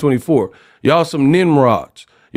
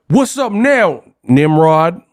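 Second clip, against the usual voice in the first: mock L.A. gangster; 2 semitones higher, slower than usual. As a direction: parody a censored gangster picking a fight. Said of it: "they'll be like".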